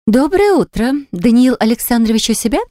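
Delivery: high, bright smiling greeting; breathy cutesy giggly. Acted. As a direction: greet him with a sweet smile. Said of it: "с улыбкой спрашивает посетительница".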